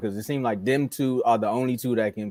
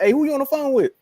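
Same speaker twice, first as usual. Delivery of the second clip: much higher, louder mock background voice; 13 semitones higher, 4 dB louder, faster than usual. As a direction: call out suspiciously from across the room. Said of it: "you in the background".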